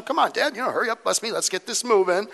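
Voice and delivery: playful hurried pleading; rushing. Retold or imitated. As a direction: hustle your dad along, lightly acted. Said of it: "he's kinda rushing".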